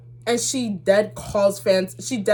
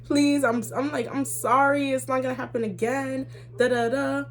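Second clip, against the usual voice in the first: mildly acted pleading; begging; 3 semitones higher than usual. Daughter begging mom at this point, pleading. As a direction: retell a plea, voice a little raised. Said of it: "I'm just begging her at this point".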